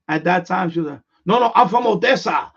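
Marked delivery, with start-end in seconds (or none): 1.3-2.5 louder, higher retold denial; insistent mock protest, pushed up and louder; indignant correction. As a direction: imitate her firmly setting someone straight. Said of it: "she really let me know".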